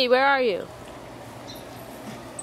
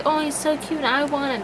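higher-pitched cooing quote; retold gushing; 5 semitones higher than usual. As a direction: imitate yourself gushing over a cute dog. Quotes own gushing reaction to dog.

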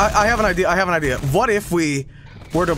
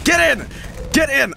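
calling out; 8 semitones higher than usual. Real, not acted. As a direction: yell it across the room at them. Calling teammates into the elevator.

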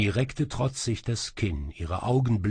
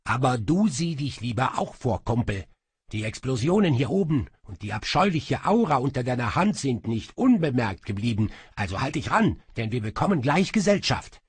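higher, quick sulky imp; grumpy little demon; 4 semitones higher, 4 dB louder, faster than usual. Acted. Little demon sulks at his master, grumpily. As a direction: grumble that you feel nothing.

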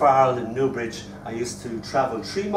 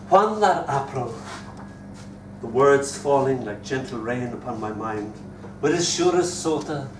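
poem recital. Acted. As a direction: savour each phrase of verse, then taper away. Recites poem woven with Chaucer.

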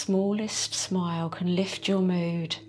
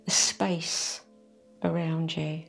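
whisper. Acted. Guide drawing attention to the space around, whispered. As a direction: let the words fade to a whisper. Whispered body awareness cue.

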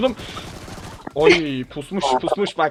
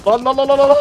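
high, loud panicked yelps; panicked yelling; 8 semitones higher, 10 dB louder than usual. Real, not acted. Gamer yelling as his opponent guns him down, loud panic. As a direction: yelp in alarm as the bullets hit. Getting shot mid-match, panicking.

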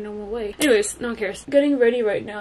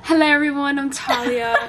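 put-on Australian accent; 3 semitones higher, 4 dB louder than usual. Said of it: "Australian accent".

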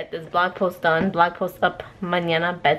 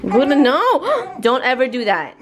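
sharp warning; 5 semitones higher, 4 dB louder than usual. Real, not acted. Mother scolding toddler away from danger, loud and sharp. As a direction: stop her right now, firmly.

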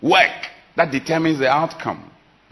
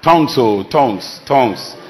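emphatic repetition; 3 semitones lower, 4 dB louder than usual. Acted. Preacher repeating word for effect.

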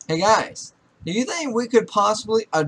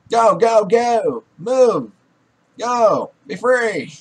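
loud, higher-pitched shouted commands; urgent shouting; 4 semitones higher, 6 dB louder, much slower than usual. Real, not acted. Player sending game characters off, urgent shouting. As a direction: shout them on to get away.

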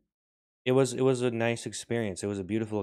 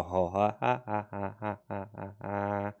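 ha-ha calls; slower than usual. Acted. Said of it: "And they go".

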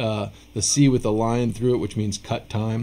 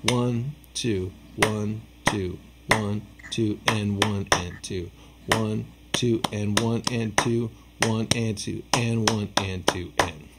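counting the beat; 5 dB quieter, slower than usual. Shown as a demonstration. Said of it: "I'll count it with, with clapping it".

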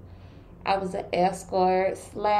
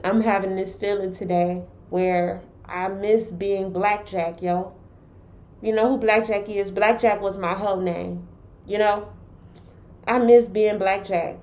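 muffled behind a mask; talking through a cloth mask; through a face mask. Real, not acted. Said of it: "excuse me having on this, uh, face mask".

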